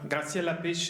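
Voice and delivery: "Graziella Pesce" said the Italian way, rolled r and "Pesce" as "pesh-eh"; Italian pronunciation. Shown as a demonstration. Host introducing the organisers says "Graziella Pesce" in Italian style. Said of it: "Je me suis permis de le dire à l'italienne".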